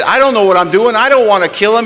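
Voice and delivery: loud, high panicked protest; re-enacted desperate shout; yelling. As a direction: yell it after someone walking away. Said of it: "I yelled at the back of his bald head".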